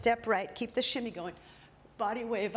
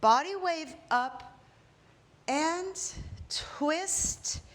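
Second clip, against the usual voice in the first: lifted cue; 6 semitones higher, much slower than usual. Shown as a demonstration. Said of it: "Let me give it to you".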